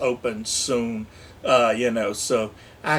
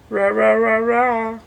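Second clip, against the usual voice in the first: effort growls; 7 semitones higher, 6 dB louder than usual. Real, not acted.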